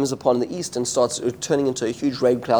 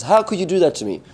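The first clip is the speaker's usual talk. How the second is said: higher-pitched mock protest; a hint of a complaining kid; imitated protesting child; 5 semitones higher than usual. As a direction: lightly voice an aggrieved child. Child protests to parent about consequence.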